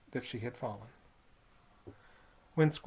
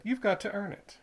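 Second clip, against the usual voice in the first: put-on sly old man bargaining; 6 semitones higher than usual. Squids voiced.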